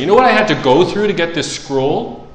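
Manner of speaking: emphatic challenge. Acted. Imagined person recounts earning the scroll, challenging emphatically. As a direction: demand that they grasp the cost. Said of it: "you could see a person saying".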